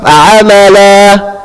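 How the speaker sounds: amala chanted, last vowel left open; stop in mid-air. Shown as a demonstration. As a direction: leave the end of amala hanging without breath or cut. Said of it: "So we just basically stop".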